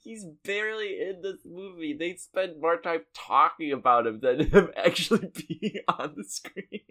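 high, laughing protest; laughing exasperation. Real, not acted. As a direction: complain through laughter, pitch climbing. Laughing complaint about the movie.

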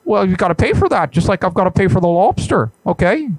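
a hint of an indignant professor; Jordan Peterson. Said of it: "this is Jordan B. Peterson".

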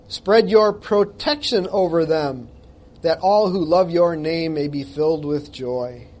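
slow, lifted scripture reading. Acted. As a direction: read the psalm slowly, with feeling. Reads psalm aloud.

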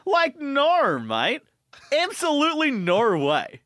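exasperated Aussie, swooping pitch; hammed-up Australian disbelief; put-on Australian accent. Concertgoer scorning the bogan's question, put-on Australian accent. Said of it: "in an Australian accent".

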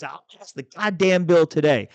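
snapping the challenge, half-acted; retold yelling. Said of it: "she starts yelling at me".

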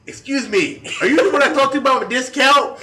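high, loud put-on African American English; mock African American accent. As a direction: accost her in a fake African American accent. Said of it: "I did a decent Ebonics imitation".

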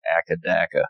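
'Akadaka' slurred together like a lightly mock Australian pronunciation of the band's name; mock Australian pronunciation. Shown as a demonstration. Telling a friend how Australians supposedly say the band's name, lightly mock pronunciation. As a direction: say 'Akadaka' as one quick word, AK-a-DAK-a, as a joke Australian saying the band's name. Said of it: "is actually pronounced Akadaka".

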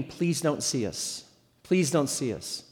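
soft, low muttered plea; hushed pleading thought. Retold or imitated. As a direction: beg under your breath not to be noticed. Silent plea while backing away.

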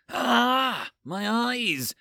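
high, loud yelp of dismay; mock outcry. Reader interrupts story announcement, mock anguished cry. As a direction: cry out as if blinded.

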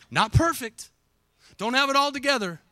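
rising preacher emphasis; emphatic. Real, not acted. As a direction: lean hard on it. Preacher stressing his point.

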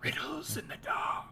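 whispered, high, slow wizard mumble; Gandalf mumble. Retold or imitated. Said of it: "Gandalf style".

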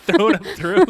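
shouted stage direction; loud call. Pretend. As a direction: bark it like a crew call. Mock throwing direction, loud.

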